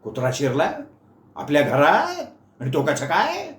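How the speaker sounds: rising, startled uncle's questions; alarmed questions. Acted. Uncle startled by the news, alarmed rising questions. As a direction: fire off worried questions. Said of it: "मामाने घाबरून विचारलं".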